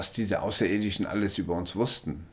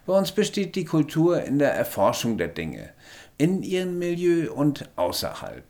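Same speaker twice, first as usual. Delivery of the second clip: higher alien voice, drops to a whisper then hurries the end; hurried alien; 9 semitones higher, 3 dB louder than usual. A narrator's reading. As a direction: rush to finish the sentence. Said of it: "schloss er dann schnell seinen Satz".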